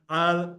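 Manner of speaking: "al" chanted, then a stop; "al" standing alone before the pause; pause after al. Shown as a demonstration. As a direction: set "al" apart with a break.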